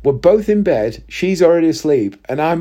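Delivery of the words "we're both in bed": ordinary delivery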